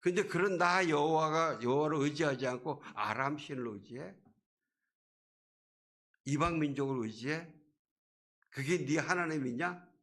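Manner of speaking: scolding, indignant questions, acted; God's rebuke. Preacher as God rebuking Ahaz for trusting foreign gods, scolding. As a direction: challenge him as a reproving God. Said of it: "하나님이 이렇게 꾸짖으시는 거예요".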